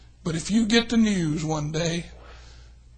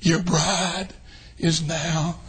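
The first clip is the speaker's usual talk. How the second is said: voice of God; 2 semitones lower, 3 dB quieter, slower than usual. Acted. God speaking to his son.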